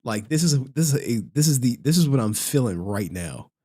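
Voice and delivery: opening up. Acted. Streamer imagining opening up to viewers, confiding. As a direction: confide it low and a little subdued. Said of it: "I really wanna open up to y'all".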